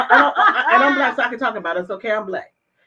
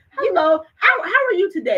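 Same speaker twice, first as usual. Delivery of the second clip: friendly phone greeting; 3 semitones higher than usual. Shown as a demonstration. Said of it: "and you come on and you say".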